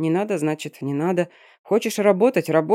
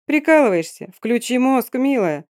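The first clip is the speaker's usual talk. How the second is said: higher and louder, bursting with indignation; snapping in exasperation, voice jumping up; indignant outburst; 7 semitones higher, 3 dB louder than usual. A narrator's reading. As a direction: explode at her friend in outrage. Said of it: "взорвалась возмущением".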